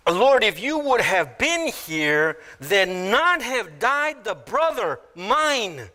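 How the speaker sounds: slow reading that lands on final "mine"; stress on MINE. Shown as a demonstration. Martha to Jesus, possessive stress on "mine". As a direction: stretch "mine" out at the end, falling. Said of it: "places the emphasis on my".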